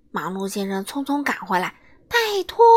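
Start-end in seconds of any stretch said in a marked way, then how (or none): 2.1-2.6 much higher and louder, exasperated; loud impatient call; impatient shout. Acted. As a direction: hurry the slowcoach up. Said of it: "他不耐烦地喊道".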